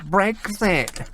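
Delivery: slow, drawn-out Cockney Leave voter; mock Cockney voice. Radio host mocking Leave voters, put-on Cockney voice. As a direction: put on a Cockney, dragging out each word. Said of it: "putting on a deep Cockney voice".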